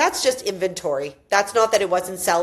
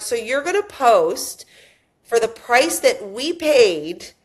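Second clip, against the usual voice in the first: slow, drawn-out disbelief, building louder on the last words; incredulous question; 3 semitones higher, 3 dB louder, slower than usual. Retold or imitated. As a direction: spell out the absurdity slowly. Retold incredulous question to agent.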